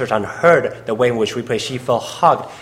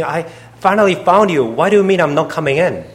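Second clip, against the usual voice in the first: raised, distraught acted plea; retold tearful protest; 4 semitones higher, 3 dB louder than usual. Interpreter voicing the woman refused by Jesus, mock-tearful protest. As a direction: protest as if weeping, pitch lifted. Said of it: "She was crying and weeping and sobbing".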